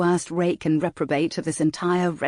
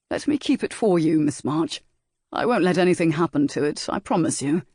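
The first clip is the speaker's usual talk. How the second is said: lightly voiced rake, coaxing. Saint Ashton coaxing Valentine.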